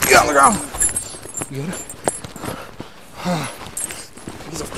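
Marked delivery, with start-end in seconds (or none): 0.1-0.6 shouting command. Real, not acted. Police ordering suspect down.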